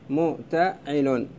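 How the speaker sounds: متعل drawn out slowly, syllable by syllable; spelled out slowly. Shown as a demonstration. Teacher to students, spelling out the foot متعل slowly. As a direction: stretch متعل out slowly, one syllable at a time. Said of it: "تصير".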